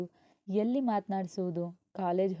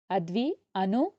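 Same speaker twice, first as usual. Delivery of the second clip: put-on a mother calling the kids across the house, a bit louder; slower than usual. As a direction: call the children's names out, rising. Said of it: "ಜೋರಾಗಿ ಕೂಗಿದಳು".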